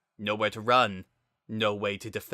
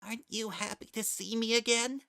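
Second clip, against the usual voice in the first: soft hopeful plea; 12 semitones higher, 5 dB quieter than usual. Acted.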